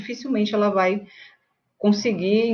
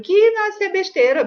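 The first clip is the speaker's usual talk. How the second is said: dismissive scoff; 12 semitones higher, 3 dB louder than usual. Retold or imitated. Mocking someone who dismisses another's job loss.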